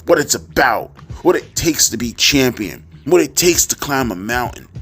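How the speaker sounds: flat, droning quoted reading; monotone reading voice. Retold or imitated. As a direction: read it like a dull diary narration. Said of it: "my monotone ass voice ... as if you're listening to an Anne Frank diary narration".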